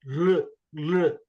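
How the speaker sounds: L rolled into R with a curled tongue; retroflex L sound. Shown as a demonstration. Teacher showing student the Vyanjana, L blended with R. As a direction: blend L and R into one liquid sound, "L". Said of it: "say L and R".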